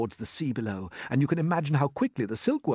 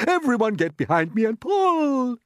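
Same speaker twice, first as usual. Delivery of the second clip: high, loud rallying order; rally the team, stretching the last word; old grasshopper shouting urgently; 13 semitones higher, 7 dB louder than usual. A narrator's reading. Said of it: "shouted the old green grasshopper".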